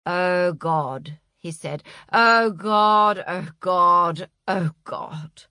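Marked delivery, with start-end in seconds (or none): 0.1-1.2 mild dismayed groan of the words; low-voiced, self-reproaching dismay. Agent dismayed at his slip. 2.1-5.4 dismay starting loud, sinking away. Acted. Agent dismayed at his slip.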